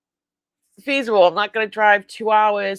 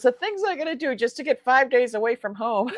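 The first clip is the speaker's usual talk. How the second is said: higher-pitched wry grumble breaking into laughter; playful retold lament, laugh at the end; joking mock complaint; 4 semitones higher than usual. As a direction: replay a joke about hardship. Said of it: "I said it like that".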